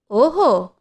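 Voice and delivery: a mocking, drawn-out oho; sarcastic oho. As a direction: toss it back with scorn. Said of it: "వ్యంగ్యంగా అన్న మాటకి".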